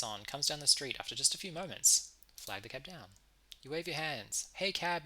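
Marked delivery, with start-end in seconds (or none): 4.5-5.0 calling out. A narrator's reading. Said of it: "you call out".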